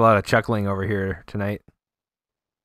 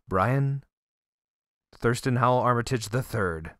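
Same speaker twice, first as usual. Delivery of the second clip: podcast host intro; slower than usual. Acted.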